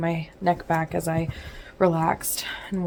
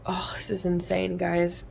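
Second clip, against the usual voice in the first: whispering; 6 dB quieter than usual. Real, not acted. Whispering exasperation late at night.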